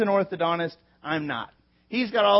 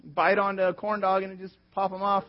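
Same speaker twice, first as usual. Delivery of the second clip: retold panic; 2 semitones higher, 3 dB louder than usual. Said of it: "feeling all this intensity of".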